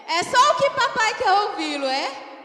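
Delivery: high, loud pulpit exclamation; rousing shouted aside to the congregation; exultant preacher's shout. Real, not acted. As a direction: burst out with the good news.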